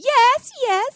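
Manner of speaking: high, loud ecstatic cries; playful fake climax; mock ecstasy. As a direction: cry out in hammed-up orgasmic delight. Acting out Oh My God Yes.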